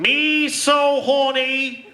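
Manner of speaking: hammed-up Boston accent with broken English; the speaker as Saigon prostitute. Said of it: "the speaker is a prostitute in Saigon".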